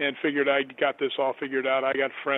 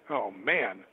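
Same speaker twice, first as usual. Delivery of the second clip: lower, let-down groan of words; acted-out disappointment, pitched lower; mock dismay; 5 semitones lower than usual. Retold reaction to sold-out hotels.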